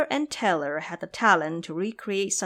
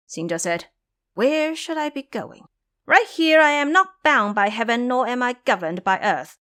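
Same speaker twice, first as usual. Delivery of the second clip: much higher and louder, grandly defiant; a free monkey king declaring himself unbound; proud monkey king; 4 semitones higher, 4 dB louder than usual. A narrator's reading. Monkey king proudly refusing to return to his master. Xing Zhe refuses to leave.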